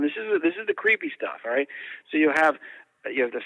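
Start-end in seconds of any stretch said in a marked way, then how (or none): 0.0-1.4 put-on little boy voice. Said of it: "a little boy's voice comes on".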